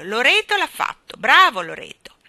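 loud, high parrot bragging; boastful squawk. A narrator's reading. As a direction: praise yourself like a cocky parrot. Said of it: "gracchiò boriosamente". (pappagallo borioso, forte e acuto)

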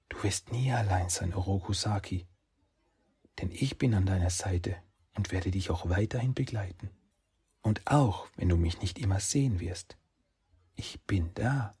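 a lightly voiced gentle fox spirit; soft fox spirit. Kitsune promises Saki she stays, soft and calm.

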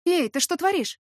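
high startled outcry; alarmed cry. Acted. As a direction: catch him off guard with a yelp. Heroine alarmed by stripping man.

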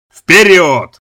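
loud barked order to move forward; yelling. A narrator's reading. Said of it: "заорал молодой".

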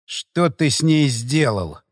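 slow, hoarse, hollow question; each word dragged out hoarse. Acted. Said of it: "свой голос со стороны, хриплый".

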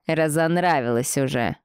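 cold indifference. Acted. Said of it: "холодным, равнодушным голосом".

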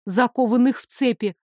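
ordinary delivery

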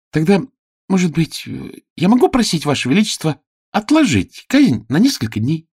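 high, hesitant page voice; pleading page. Acted. Page asks the king to postpone the execution, high pleading voice. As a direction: ask the king carefully, as a page.

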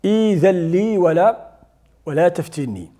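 إيذن started with a clear hamza and long i; pronunciation demo. Shown as a demonstration. Teacher models starting the verse for the class. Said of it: "اللي بدنا نبداو بها".

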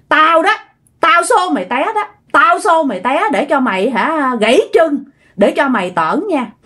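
mild mock tirade, piling up threats; retold scolding. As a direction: imitate a ghost woman telling off a wayward girl. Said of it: "Bắt đầu mới chửi quá trời chửi".

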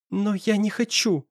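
lips trembling, near tears; a touch of quivering plea; trembling babble. A narrator's reading. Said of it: "тихо пролепетала подрагивающими губами".

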